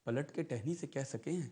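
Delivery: measured, lilting verse reading; poetic recitation. Acted. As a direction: recite each line with pauses. Recites nazm Zard Patte.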